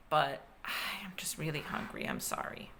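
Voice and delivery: whispered, sheepish apology; hungry sunfish whispering sorry; soft whisper. Acted.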